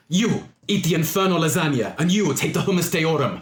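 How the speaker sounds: a hint of a commanding mistress; imperious mistress. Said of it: "snaps her fingers at two of her attendants and says".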